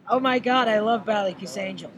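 bright, loud and gushing; an over-excited fan raving about Ireland; gushing American fan. Retold or imitated. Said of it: "he went".

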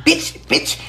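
high-pitched mock cursing; imitated ranting man. Mimicking the man caught with the turkeys, mock ranting. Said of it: "up in there talking about".

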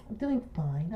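small, soft high-pitched man's voice. Retold or imitated. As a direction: imitate a big guy's tiny high voice. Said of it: "they got a high-pitched voice".

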